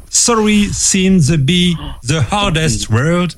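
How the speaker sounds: slow English title in a French accent; measured French-accented English. Real, not acted. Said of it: "entraîne ton accent anglais aussi".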